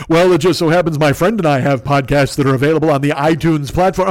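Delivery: mock automated commercial voice; Fearful. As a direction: recite it like a canned advert. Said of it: "you fucking automated commercial nonsense".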